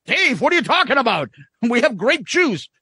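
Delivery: a hint of an exasperated friend; skit character. Quoting the grape drink skit, mock indignant. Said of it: "That's another skit".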